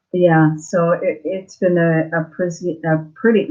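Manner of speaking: slurring with a swollen mouth; tongue tripping over the words. Real, not acted. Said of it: "tongue having twisted".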